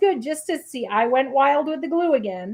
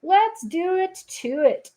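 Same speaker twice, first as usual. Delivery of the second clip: catchphrase; 5 semitones higher than usual. Pretend. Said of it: "as they say".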